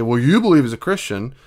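put-on confrontational know-it-all; mock accusation. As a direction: imitate a challenger, leaning on YOU. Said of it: "whether they talk like that".

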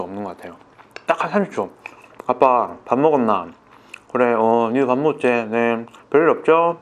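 speaking with fingers against lips; slightly covered mouth. Real, not acted. Seen 3: Fingertips pressed to lips while speaking, holding chicken in other hand.

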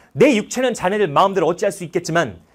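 loud rising cry of defiance; defiant shout. Retold or imitated. Prisoner shouts defiance at court after death sentence, loud. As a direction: hurl it at the court. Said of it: "이러면서 이제 소리 지르고".

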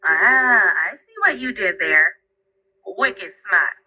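playful Boston accent. Shown as a demonstration. Assistant replying to the user's echo, in a Boston accent. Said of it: "How about a thick Boston accent?".

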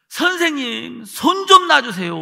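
high, drawn-out retold plea; pleading request. Boy asking teacher to release his hands, pleading. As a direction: ask to be let go, high and stretched out.

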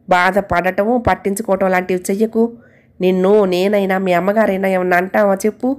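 calm, gentle counsel; a husband gently advising the maid; gentle advice. Acted. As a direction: gently talk the maid round. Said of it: "మెల్లగా దానికి హితబోధ చేశాడు".

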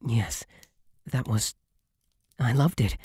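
a little winded after kissing; out of breath. Acted. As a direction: catch your breath between words. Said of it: "I just need a moment to catch my breath".

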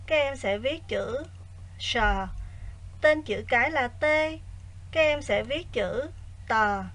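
quiet, even lesson reading; soft teacher voice. Acted. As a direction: read the exercise softly and evenly. Quiet recorded exercise reading.

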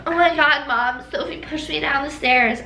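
dramatic little sister. Retold or imitated. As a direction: tell on your sibling, hammed-up. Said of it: "she was also very dramatic".

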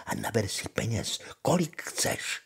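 put-on lively old witch giving instructions, pitch leaping high on key words; lehce hraná čarodějnice. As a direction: coax and reassure as the witch, swooping up high. (živě vemlouvavá čarodějnice)

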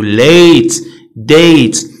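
late with a stretched "ay"; long vowel. Shown as a demonstration. Teacher giving silent-E examples, long vowel. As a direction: lengthen the vowel in late and date. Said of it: "كتخلي الفاول طويل".

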